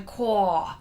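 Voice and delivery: "quah" with a long open vowel, as an exclamation; demonstrated exclamation "cor". Shown as a demonstration. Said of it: "it's like saying".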